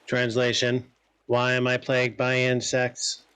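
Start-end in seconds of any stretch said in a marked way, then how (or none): 1.3-3.2 even, level-pitched translated voice; translated game character. Acted. Translator speaks a creature's words to the investigator, measured.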